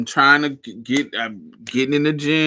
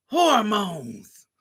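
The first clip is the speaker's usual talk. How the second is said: much higher cracked granny cry; old lady wail; 10 semitones higher than usual. Pretend. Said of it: "I wanna be talking shit".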